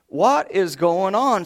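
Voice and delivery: drawn out in disbelief; father staring at the wrecked yard, stunned; shocked. Retold or imitated.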